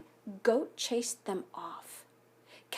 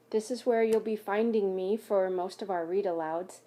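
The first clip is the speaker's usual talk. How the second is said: whisper. Real, not acted. Teacher whispering to class.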